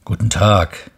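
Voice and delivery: a hint of a plain railway worker; switchman greeting. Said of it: "sagte der Weichensteller".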